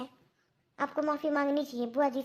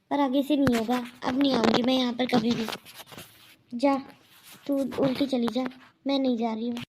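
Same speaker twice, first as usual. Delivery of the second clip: louder, hurt and angry; angry refusal; 2 semitones lower, 4 dB louder than usual. Acted. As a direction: refuse her flatly. Aunt refuses angrily. (गुस्से में मना करती बुआ)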